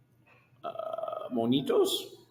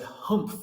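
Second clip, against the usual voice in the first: joey's humph; 11 semitones higher than usual. Acted. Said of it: "humphed a voice".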